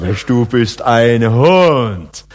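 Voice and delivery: slow, drawn-out "Mensch, du bist ein Hund" said as warm respect; admiring praise. Shown as a demonstration. Preacher shows "Hund" meant as the highest praise. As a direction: draw out "Hund" admiringly, like praising a daring friend. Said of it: "das ist höchste Anerkennung".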